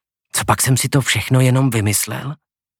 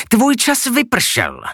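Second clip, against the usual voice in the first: high, slow menacing pronouncement; drawn-out verdict, pitched well up, dropping at the end; hissed threat; 10 semitones higher, much slower than usual. A narrator's reading. Monstrous teacher to her pupil, mild hissed menace. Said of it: "zasyčela".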